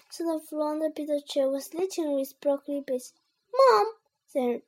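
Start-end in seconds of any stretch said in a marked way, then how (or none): 3.6-3.9 loud, high call to mom; high complaining shout; tattling child. A narrator's reading. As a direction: call mom to tell on your brother. Henry tells on Peter.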